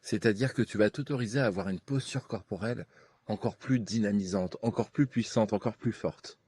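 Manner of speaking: right in your ear. Acted. Leads a hypnosis session.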